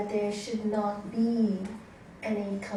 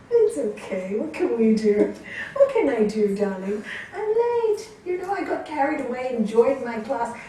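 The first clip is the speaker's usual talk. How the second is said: light easygoing reply; 2 semitones higher, 5 dB louder than usual. Retold or imitated. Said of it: "and say".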